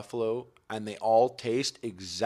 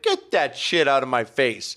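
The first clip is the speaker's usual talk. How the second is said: slow, louder mock-angry snap; angry reaction; 3 semitones higher, 6 dB louder, slower than usual. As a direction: bark it out slowly as the persona. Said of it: "angry reaction".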